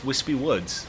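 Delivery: drawn out slowly through laughter; giggling while stretching the words; laughing. Real, not acted. Laughing repeat of name.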